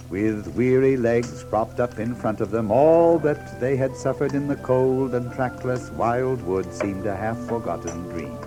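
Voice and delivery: ordinary delivery, nothing marked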